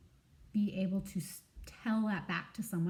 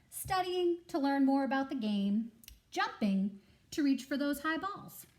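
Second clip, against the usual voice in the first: coaching goat; 5 semitones higher than usual. Acted. Goat lists training.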